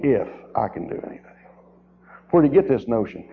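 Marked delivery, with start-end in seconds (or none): 0.0-1.3 quick dismissive if; mimicking the doubter, quickly; mock doubtful quote. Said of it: "What do you mean".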